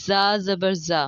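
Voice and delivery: buzzing, light z in زا; distinct letter articulation. Shown as a demonstration. Teacher showing learners similar letters, buzzing z. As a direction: say زا with a clear plain z. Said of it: "ان کی ادائیگی بالکل".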